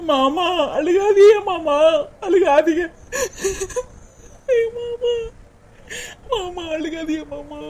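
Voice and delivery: slow, high, crying; wife begging her weeping husband to stop, sobbing and fading; sobbing plea. Acted.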